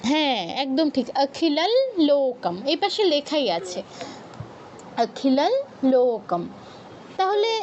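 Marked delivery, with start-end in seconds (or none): 1.2-2.6 "অখিলাল" slowly, held on a final nasal l; half l sound. Shown as a demonstration. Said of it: "অনুসারের উচ্চারণ ল এর মতো হবে". 5.0-6.4 "অখিলাল" held on its final l, then a break; half l sound. Shown as a demonstration. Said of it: "অনুসারের উচ্চারণ ল এর মতো হবে".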